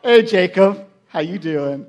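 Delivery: lightly voiced bride, dropping low; smiling Leah. Leah greets Jacob the morning after, smiling. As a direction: greet him coyly with a smile. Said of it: "She's got a big smile on her face".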